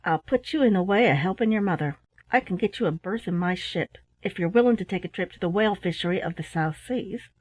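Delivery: a hint of the rough jack-tar; a kindly sailor making an offer; lightly voiced sailor. Sailor's voice in story.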